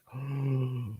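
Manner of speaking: imitated gasp of disbelief; shocked gasp. Speaker imitates family watching the episode, shocked gasp. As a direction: gasp softly like a stunned viewer. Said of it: "they're just like".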